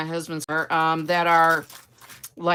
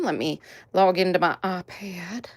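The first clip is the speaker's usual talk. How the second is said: Southern accent. Real, not acted. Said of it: "I'm doing a Southern accent right now".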